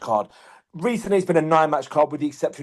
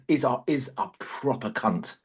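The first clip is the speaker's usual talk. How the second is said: slow, with the word cunt punched and fully sounded; stress on cunt; 6 dB quieter, slower than usual. Shown as a demonstration. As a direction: lean hard on cunt, every letter spelled out. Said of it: "I'm really pronouncing the word cunt".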